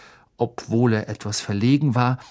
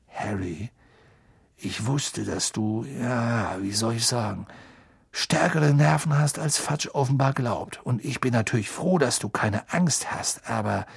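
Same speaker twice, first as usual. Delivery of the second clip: lightly voiced older man, halting; hesitant worried father. Father trying to warn the boy, hesitant.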